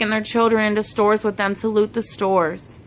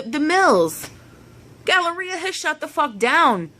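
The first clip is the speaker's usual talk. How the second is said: beside herself; 4 semitones higher than usual. Real, not acted. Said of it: "I'm beside myself".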